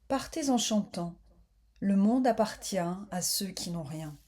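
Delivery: measured poetic reading in short phrases; calm meditative verse reading; poem recitation. Real, not acted. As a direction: recite it line by line, with pauses between.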